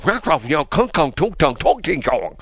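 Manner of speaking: gibberish mock Chinese; fake foreign language. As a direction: babble fake Chinese sounds. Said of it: "she talks like gibberish".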